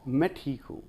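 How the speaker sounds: gentle, sincere reply; mean it, with quiet thanks; sincerely fine. Shown as a demonstration. Teacher demonstrating a grateful answer to "how are you", sincerely. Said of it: "मैं वाकई ठीक हूँ".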